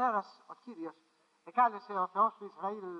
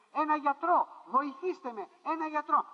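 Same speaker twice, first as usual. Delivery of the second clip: higher, louder cry of «γιατρό», half-acted; retold desperate shout; 5 semitones higher, 3 dB louder than usual. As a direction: call out for a doctor, a touch of panic. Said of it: "και φώναζε". (ξαναειπωμένη κραυγή για γιατρό, πιο δυνατά)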